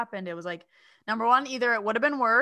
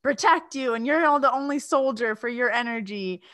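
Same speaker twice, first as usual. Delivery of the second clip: mock yell; 4 semitones higher, 6 dB louder than usual. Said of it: "'cause I'm Lebanese, so I yell".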